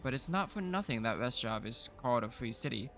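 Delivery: lightly voiced proud town official; city official voice. To the new baron, a lightly voiced proud city official. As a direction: read it as a dignified civic leader.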